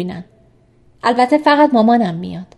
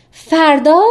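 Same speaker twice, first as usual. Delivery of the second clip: high, loud startled question; 6 semitones higher, 6 dB louder, much slower than usual. A narrator's reading. Woman hearing his mother comes tomorrow, startled. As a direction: blurt it as an alarmed question.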